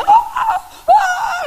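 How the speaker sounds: high, loud imitated wailing cries; mock wailing. Mourners at the deathbed, imitated loud wailing. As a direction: ham up the family's wailing.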